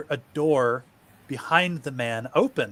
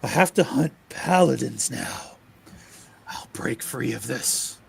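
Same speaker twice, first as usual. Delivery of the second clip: out of breath; gasping between words; panting. Acted. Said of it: "Mark is left there panting".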